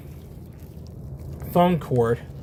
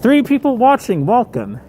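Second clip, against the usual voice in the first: excited; 10 semitones higher, 7 dB louder than usual. Real, not acted. Streamer greets new viewers.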